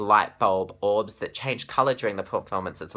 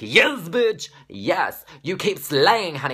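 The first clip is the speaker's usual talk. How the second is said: much higher and louder ecstatic shriek; screaming fan cheer; 8 semitones higher, 6 dB louder, much slower than usual. Retold or imitated. Fan cheering a singer on screen, high ecstatic shriek. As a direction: scream it like the front row. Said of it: "I was like".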